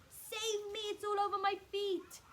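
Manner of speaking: high, loud panicked plea; terrified Mrs Twit. A narrator's reading. Mrs Twit begs her husband to save her, high and frantic. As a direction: beg to be saved, frantic.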